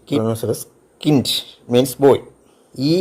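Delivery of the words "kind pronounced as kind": kind with a hard t ending; German Kind. Shown as a demonstration. Teacher models the German word kind with a t. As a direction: say kind as kint. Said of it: "K I N D".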